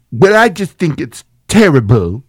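slow, mopey complaining man; droopy dog guy. Retold or imitated. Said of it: "the droopy dog guy".

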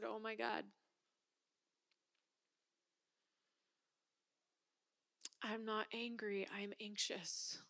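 hushed, breathless realization, slow; tearful whisper. Real, not acted. Realizing to the wife that the anger was anxiety, tearful whisper. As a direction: whisper it as the truth lands. My eyes kinda started to tear up.

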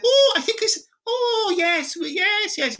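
high, flustered, caught off guard; a very high, startled stammer; flustered squeak. Retold or imitated. Actor flustered by the nurse, very high startled squeak.

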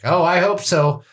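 put-on high, fond farewell from an old woman; sweet old grandma. Grandma seeing her grandson off, high and sweet. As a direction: lift the voice high and sweet for a goodbye. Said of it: "And she's like".

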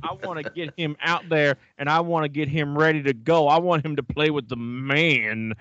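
put-on Southern Ontario accent, slowed right down. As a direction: play a blustering Southern Ontario hockey dad. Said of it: "That Southern Ontario accent is spot on".

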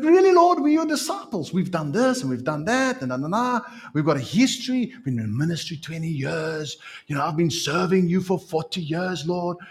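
high, aggrieved complaint; indignant disciple. Acted. A disciple protests the donkey errand, high and offended. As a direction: whine about your long service.

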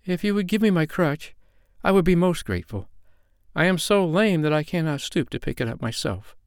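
put-on high-pitched little girl pleading; timid. A narrator's reading. Lame girl asks for her dropped crutch, timidly. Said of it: "answered little Nanny timidly".

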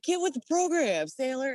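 high mocking rebuke; mock scolding. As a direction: scoff at the lost sailor. Marines scolding the sailor.

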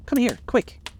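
high, urgent call from the window; crying out. A narrator's reading. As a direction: call him over, excited. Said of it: "cried Daisy at the window".

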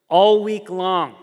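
ALL WEEK LONG loud, high and stretched; drawn-out emphasis. Real, not acted. Preacher on the brother's endless blackmail, "All week long" loud and drawn out.

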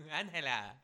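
thick peanut butter mouth; sticky mouth full, mock. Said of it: "peanut butter stuck to the roof of your mouth".

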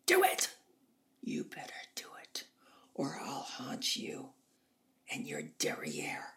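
Norma Desmond. Retold or imitated. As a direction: imitate a threatening diva drawing out each phrase. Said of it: "And she said".

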